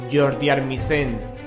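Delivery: usual speaking voice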